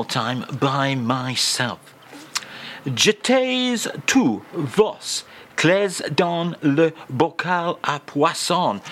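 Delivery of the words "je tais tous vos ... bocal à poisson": very slow, deliberate French; grand French read-out. Shown as a demonstration. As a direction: announce the French phrase slowly, word by word. Final showy read-out of the phrase.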